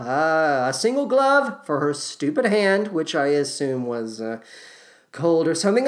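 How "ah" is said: ordinary talk, nothing marked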